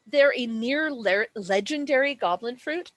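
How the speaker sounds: talking through hiccups; interrupted by hiccups. Real, not acted. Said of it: "I have the hiccups now".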